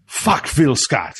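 put-on thick French accent, high and slow. Driver quoting the Frenchman, in a French accent. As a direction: spit it out like an angry French racer. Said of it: "in his very French accent".

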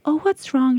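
high, loud fussing waiter; kind waiter. Retold or imitated. Mother retelling a waiter fussing over her toddler. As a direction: fuss over the crying child. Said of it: "He was going".

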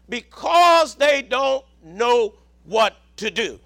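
measured, emphatic sermon delivery; preaching. Real, not acted. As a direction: preach it in weighty phrases with pauses. Preaches on a verse.

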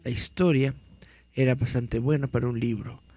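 dramatic horror story reading; story narration. Acted. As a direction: read it like a campfire tale. Reads horror story aloud.

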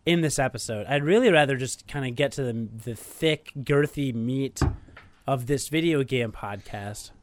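tired, hoarse sore-throat voice; sick voice. Real, not acted. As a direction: speak as if your throat hurts. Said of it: "I feel like death".

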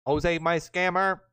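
slow robot voice reading comments. Pretend. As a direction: read it like a robot. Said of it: "read the comment like a robot".

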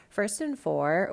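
ordinary talk, nothing marked

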